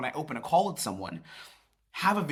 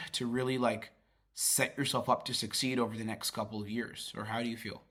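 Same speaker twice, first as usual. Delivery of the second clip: genuine curiosity; 2 semitones lower than usual. Shown as a demonstration. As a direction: ask it as if you truly want to know. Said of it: "Do you hear the genuine curiosity".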